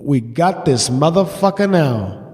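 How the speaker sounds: low, slow gloating; inner scheming thought. Retold or imitated. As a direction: savor the plan in a low voice. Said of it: "and I thought".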